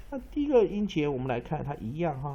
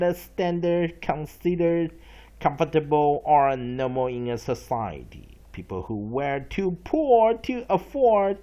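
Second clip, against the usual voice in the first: dictionary read again; 3 semitones higher, 5 dB louder than usual. Shown as a demonstration. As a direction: read it again so they can follow you. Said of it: "redo the vocabulary again".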